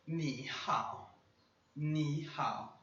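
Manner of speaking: ni hao said slowly in two third tones; Mandarin ni hao. Shown as a demonstration. Teacher demonstrating ni hao to students. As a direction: carefully model ni hao. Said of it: "oi em chinês a gente fala".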